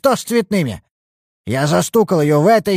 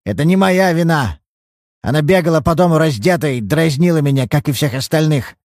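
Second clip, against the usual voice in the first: put-on higher, louder self-pitying old man; whining; 4 semitones higher, 3 dB louder than usual. Old father whining excuses to the detective. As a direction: plead and whine a little. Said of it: "Перестаньте хныкать".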